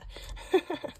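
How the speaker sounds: brief, light chuckle; real little laugh; short laugh. Real, not acted. Laughs after remark about Luna.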